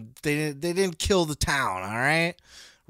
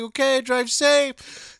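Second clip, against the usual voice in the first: imitating Samantha Irvin; 7 semitones higher, 3 dB louder, slower than usual. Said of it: "Poor Samantha Irvin's just like".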